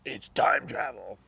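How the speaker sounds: loud, slow, drawn-out announcement; excited exclamation. Real, not acted. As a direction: proclaim "It's time travel!" loudly and slowly, stretching "time". Excited reveal in game.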